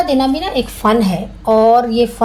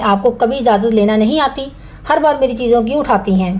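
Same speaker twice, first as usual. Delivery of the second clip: a brisk mock scolding, quicker at the end; harsh tone; faster than usual. Shown as a demonstration. Wife scolds her husband's sister over borrowed things, harsh. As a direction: snap at the sister-in-law, half acted. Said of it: "آپ سخت لہجہ استعمال کریں".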